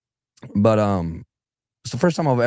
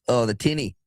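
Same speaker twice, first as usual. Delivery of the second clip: put-on Australian accent; 2 semitones higher than usual. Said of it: "they call the little boats".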